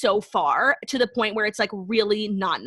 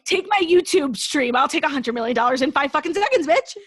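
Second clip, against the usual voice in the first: eager mock offer; 5 semitones higher, 3 dB louder than usual. Podcaster jokes she'd give up YouTube at once, gleefully loud. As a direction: play it like you'd snatch the money.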